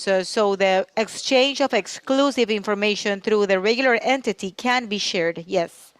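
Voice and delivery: talking with food in mouth; mouth full. Real, not acted. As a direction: speak around a bite of food. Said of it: "I had something in my mouth".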